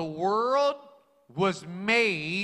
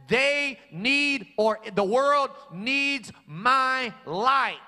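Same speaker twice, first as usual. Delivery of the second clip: proclaiming shout; 4 semitones higher, slower than usual. Acted. Preacher voicing God's declaration.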